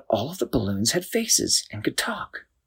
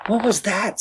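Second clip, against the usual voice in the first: higher, scared whisper; frightened whisper; 11 semitones higher, 3 dB louder than usual. A narrator's reading. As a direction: whisper in alarm after the burst. City tips after balloon bursts.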